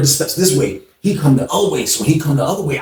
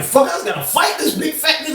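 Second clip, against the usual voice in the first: retold dread; 12 semitones higher, 5 dB quieter than usual. Dreading a fight, thinking aloud.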